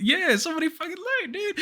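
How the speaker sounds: high, rushed squeal of disbelief; exasperated comic outburst; mock exasperation. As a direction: blurt it out high and fast. Acted outburst at the juror's lie.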